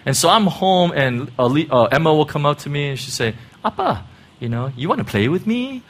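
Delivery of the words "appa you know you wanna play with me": a light hint of Hong Kong intonation, playful. Father imitating daughter asking him to play, light Hong Kong intonation. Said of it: "the Hong Kong intonation".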